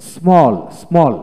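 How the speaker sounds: স্মল drawn out slowly, twice; model reading. Shown as a demonstration. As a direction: drill স্মল for learners, stretching the "aw". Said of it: "আমি এখন পড়ে শোনাই".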